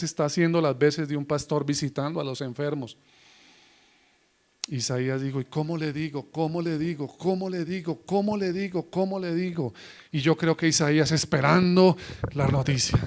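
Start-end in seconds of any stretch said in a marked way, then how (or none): 5.4-9.7 softer, repeated anxious murmur; worried musing. Acted. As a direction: turn it over uneasily, half to yourself. Prophet dreads the news.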